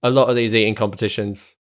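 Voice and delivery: lightly gravelly rough character voice; a touch of gravel in the throat. Acted. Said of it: "he's got such a gravelly voice as well".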